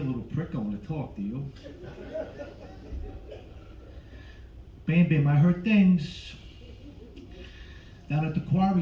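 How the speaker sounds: a hint of a mob father grilling the kid; understated De Niro threat in a cartoon dad's shoes; De Niro as Fred Flintstone. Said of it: "De Niro as Fred".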